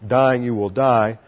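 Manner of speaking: "Dying you will die" slow, leaning on "Dying" and "die"; slow emphatic literal rendering; emphasize the repetition. Shown as a demonstration. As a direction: read it out slowly to stress the doubled verb. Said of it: "to emphasize the repetition of the verb".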